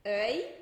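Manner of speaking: "œil" cut at its I glide; I existente. Shown as a demonstration. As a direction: say "œil" stopping on the short I. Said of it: "Ele já tem um I". ("œil" parando no som de I)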